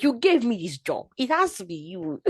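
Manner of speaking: high, insistent thanks to God; excited claim. Retold or imitated. Believer telling God the job was his doing, excited. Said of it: "So I'm like".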